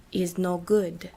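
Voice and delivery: slow, lightly voiced Eastern European accent; heavy accent. Unhappy buyer to narrator, slow, lightly voiced Eastern European accent. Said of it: "one of them said through a heavy accent".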